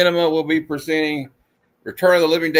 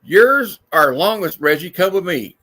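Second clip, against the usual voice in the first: comic character voice; 4 semitones higher than usual. Acted.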